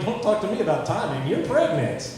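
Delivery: hammed-up scolding; mock indignant dad. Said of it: "I'm like".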